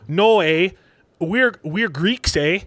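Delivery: light mock Canadian accent, slowing down; lightly imitated Canadian reassurance. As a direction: put on a bit of Canadian, tagging the "eh". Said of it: "in a Canadian accent".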